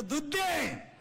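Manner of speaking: high-pitched mock child's cry; demanding baby. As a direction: wail it like a fussy infant. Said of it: "ते कार्ट म्हणलं".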